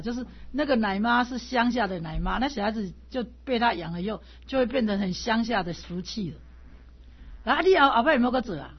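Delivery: loud, harsh teacher's scolding, rushing at the end; fierce scolding. Retold or imitated. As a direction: scold the student like a stern old master. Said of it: "好凶哦". (大声凶巴巴地骂学生)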